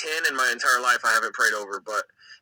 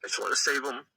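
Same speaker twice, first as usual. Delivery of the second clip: choked up, halting testimony with long pauses; real emotion welling up, haltingly; getting emotional. Real, not acted. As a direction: struggle to hold it together as you speak. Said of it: "sorry, I'm getting emotional".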